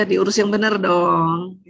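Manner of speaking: slow, drawn-out gentle reproach; lightly acted mother-in-law chiding; mildly worded chiding. Mother-in-law correcting the baby's mother, slow mild chiding. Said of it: "udah lembut tuh ya".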